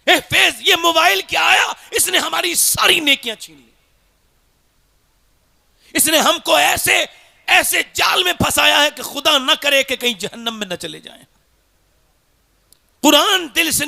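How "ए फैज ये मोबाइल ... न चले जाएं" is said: high-pitched preacher's lament; impassioned sermon complaint; lamenting exhortation. Real, not acted. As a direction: warn the congregation in a raised pitch.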